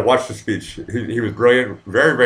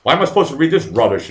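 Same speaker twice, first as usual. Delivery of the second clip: imitating Trump; 6 semitones higher, 4 dB louder than usual. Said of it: "he's like".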